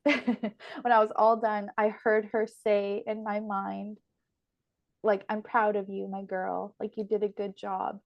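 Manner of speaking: slowed, fading voice as tears come; getting emotional. Real, not acted. Remembering her grandmother's words at Christmas, choked up. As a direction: hold back tears while retelling grandma's words. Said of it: "oh, I'm getting emotional".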